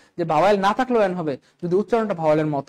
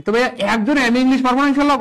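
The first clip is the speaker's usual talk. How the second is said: coaxing; 5 semitones higher, 5 dB louder than usual. Real, not acted. Teacher coaxes silent class.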